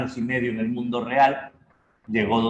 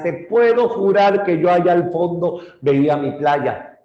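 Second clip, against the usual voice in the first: desperate longing; 7 semitones higher, 6 dB louder than usual. Acted. Odysseus longing for home.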